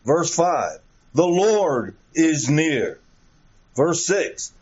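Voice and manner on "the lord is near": "Lord" leaned on, slowed down; slow emphatic reading. Shown as a demonstration. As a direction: spell it out slowly for the congregation. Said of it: "as I call attention to these expressions".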